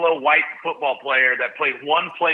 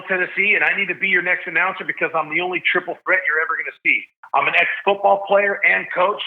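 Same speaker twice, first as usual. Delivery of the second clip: a touch of announcer polish, lightly raised; selling himself like a hopeful stadium announcer; lightly voiced eager announcer; audition pitch; 3 semitones higher than usual. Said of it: "try to be funny to stand out".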